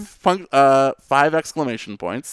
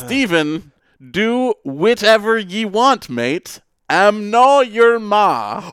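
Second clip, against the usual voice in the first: put-on Scottish accent; 8 semitones higher, 4 dB louder, slower than usual. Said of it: "The dialect".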